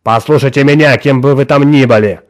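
loud angry snap; barking. A narrator's reading. Boss cutting off the caller he thinks is a madman, barking. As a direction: bark it down the phone line. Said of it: "рявкнул Норс".

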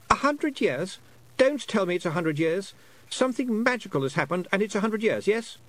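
put-on high, lightly boyish voice, puzzled; a lost boy working out how long he's been away; young boy Roland, unsure. A narrator's reading. Lost boy telling Tiffany about time, high and puzzled. Boy fears a hundred years.

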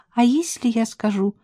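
flirt with him, dragging out навсегда; coquettish. Acted. Woman teasing her lover about staying, coquettish. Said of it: "кокетливо сказала она".

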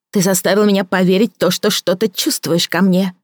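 a woman confronting a former lover; Victoria's voice. Acted. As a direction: press him, hurt and accusing. Voices Victoria, high-pitched.

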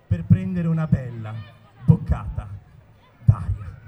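gasping in air between words; words broken by sharp breaths; catching breath midword. Pretend. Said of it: "Perché boccheggi?". (parole spezzate da respiri affannosi)

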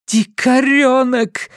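high slow angry woman's cry; Linda scolding. A narrator's reading. Linda scolds her son as a little savage. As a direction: spit the insult out. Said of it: "Linda scolds".

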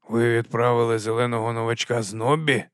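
faintly weary question; understated exhausted disbelief; worn out. Acted. Captain questions sergeant about the new recruit, mildly worn out. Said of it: "знесилено запитав Веймс".

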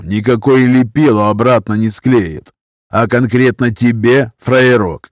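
slow, heavy prison-slang threat; lightly voiced gangster, slow and cold; menacing criminal thug. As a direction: lean in and threaten coldly. Hero plays a criminal thug.

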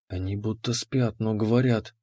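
soft hushed voice; whispered. A narrator's reading. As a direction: breathe it out quietly. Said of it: "прошептала Ани".

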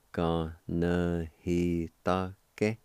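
"Ga, na, he, ta, ke" in measured, lightly separated syllables; careful teaching take of "Ga, na, he, ta, ke"; measured syllable demonstration. Shown as a demonstration. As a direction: say "Ga, na, he, ta, ke" syllable by syllable with short gaps. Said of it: "it's pronounced like this".

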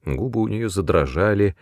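plain reading voice

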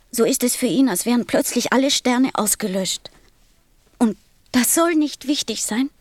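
mild indignation. Acted. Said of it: "ganz blass vor Zorn".

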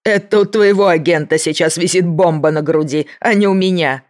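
loud, high unhinged threat; menacing shout. A narrator's reading. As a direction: rant like a cornered madman. Mankuza threatens to blow them up.

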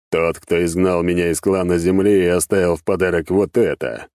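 lightly voiced demon master; a boss explaining firmly to his servant. (слегка обозначенный голос беса-начальника)

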